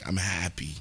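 tipsy and content; while sipping a drink. Real, not acted. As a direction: say it with a drink in hand. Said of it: "So if you hear me drink".

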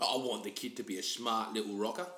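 a hint of Cockney, listing wishes for her boy; Cockney mum. Cockney mum telling the Queen about her future son, lightly voiced. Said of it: "your mum's totally, like, Cockney".

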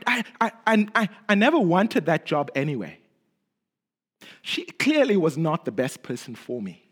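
lightly voiced falsely spiritual brushing off; breezy pious excuses, a hint of denial; mild hammed-up churchy reassurance; mock pious cover-up. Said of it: "Christian cover-ups that sound really spiritual".

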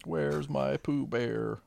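slow high mock wail. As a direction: drag out a sad wail.

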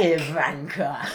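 slow, drawn-out name; mock seduction. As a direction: linger hammily on the name. Repeats the chat-up name in role.

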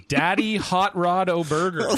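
loud laughing exclamation; laughing shout. Real, not acted. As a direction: burst out laughing at the name.

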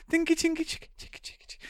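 high tinky then breathy chicky; whispered cycling noises. Acted. Cyclist pedalling, noises fading to breath.

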